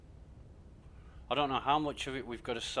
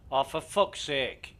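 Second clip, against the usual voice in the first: exasperated; 3 semitones higher, 7 dB louder, slower than usual. Real, not acted. Cruise control broken again.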